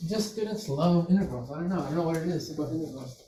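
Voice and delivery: thick, heavy, super-sarcastic tone. Answering a student who asks why integrals are the favorite: super sarcastic. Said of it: "I'm being super sarcastic".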